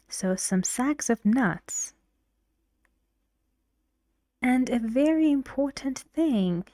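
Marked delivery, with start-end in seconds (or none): 0.4-1.9 "sacks" and "nuts" stressed, "of" kept weak. Shown as a demonstration. Teacher showing the rule for "of" phrases, stressing "sacks" and "nuts". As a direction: put the beats on "sacks" and "nuts". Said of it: "the first word and the next".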